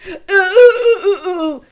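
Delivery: put-on high, loud, eager ooh ooh of a child begging to answer. Pretend student Annie begging the teacher, loud eager oohs. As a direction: bounce with your hand up wanting to be picked. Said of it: "I bet you she's not going".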